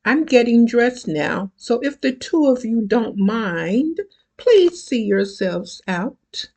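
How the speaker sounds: lightly voiced Valley Girl; a hint of Valley Girl chirp. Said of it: "in her best Valley Girl voice".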